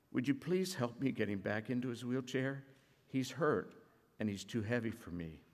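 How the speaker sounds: soft, understated sobbing plea; a hint of a tearful boy begging quietly; pleading. Boy begging the driver to help his hurt brother, softly tearful. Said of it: "Sobbing, the boy pleaded".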